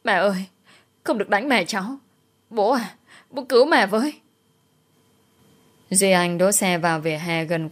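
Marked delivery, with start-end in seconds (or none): 0.0-4.1 put-on child's plea, higher and fast; pitiful crying child. Little boy begging women to stop beating his mother, hint of crying. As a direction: beg them to stop hitting mum. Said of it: "vẫn cứ khóc thảm thiết".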